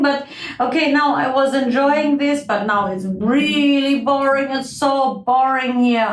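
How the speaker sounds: lightly voiced grumbling insect; a touch of whining boredom; bored, spiteful midge. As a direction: go from amused to fed up.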